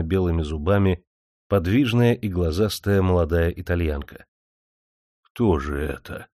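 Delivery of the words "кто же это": half-frightened. A narrator's reading. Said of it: "полуиспуганно, почтительно спросил".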